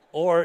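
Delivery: Or said alone, loud, with a laugh; second syllable. Retold or imitated. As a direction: give Or its own loud beat. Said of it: "is the second one".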